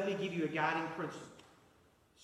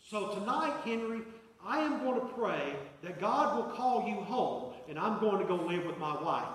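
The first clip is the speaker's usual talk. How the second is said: wife's angry words. Retold or imitated. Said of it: "in her, uh, Swedish accent, I won't try to emulate it".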